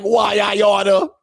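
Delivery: high, slow cartoon threat; mock old-timey threat. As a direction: play it like a cartoon tough guy. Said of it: "I would be like".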